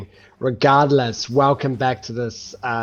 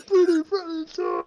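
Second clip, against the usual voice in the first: booming monster voice. Acted. GM repeats monster line.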